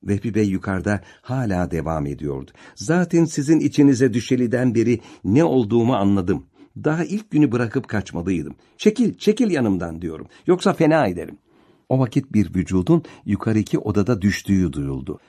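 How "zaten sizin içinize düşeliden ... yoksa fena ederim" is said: higher, heated threat; angry threat. Acted. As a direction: push her away in rising anger. Vehbi Bey tehditle bağırıyor. (öfkeyle tehdit eden, yükselen ses)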